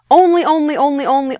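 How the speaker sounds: ONLY repeated rapidly, pitched high; insistent repetition. Real, not acted. Teacher stressing a rule to students, insistent repetition. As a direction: hammer ONLY over and over in a high voice.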